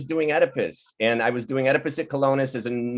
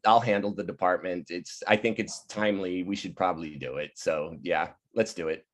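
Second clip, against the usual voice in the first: quiet resignation; 6 semitones lower, 6 dB quieter than usual. Retold or imitated. Advisor quietly giving in. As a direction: lower and softer, settling into a yes.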